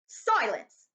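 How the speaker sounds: loud barked command; yelled. Acted. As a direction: yell for silence. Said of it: "yelled Uncle Vernon".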